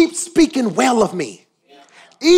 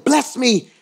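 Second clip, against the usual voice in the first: urgent slow plea; 3 semitones higher, slower than usual. Acted. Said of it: "This is an emergency".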